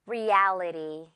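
Reality slow, the "al" drawn out; stretched middle syllable. Shown as a demonstration. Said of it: "고무줄처럼 늘어뜨리는".

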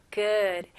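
Good said slowly and clearly, not as a Korean gut. Shown as a demonstration. Teacher isolates Good so students hear the sound. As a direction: give Good a full short vowel. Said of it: "Good가 아니고요".

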